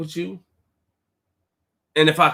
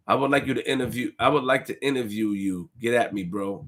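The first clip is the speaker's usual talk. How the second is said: reading a message; 8 semitones lower, 5 dB quieter than usual. Retold or imitated. Imitating interview request message.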